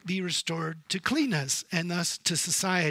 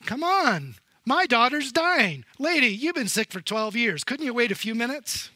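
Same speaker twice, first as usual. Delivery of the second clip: impatient desperate father; 5 semitones higher, 5 dB louder than usual. Acted. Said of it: "Can you imagine Jairus".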